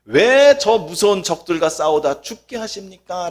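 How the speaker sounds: mock tearful lament, rising to a plea; hammed-up wailing complaint to God; wailing Israelites. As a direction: act out the people crying to God. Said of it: "라고 밤새 통곡을 합니다".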